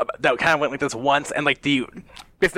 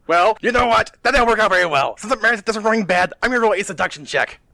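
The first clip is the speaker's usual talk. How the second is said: raised, hurried comeback; acted comic reply; 6 semitones higher, 3 dB louder, faster than usual. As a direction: rattle off a new plan, pitched up. Acted reply in retold webcomic.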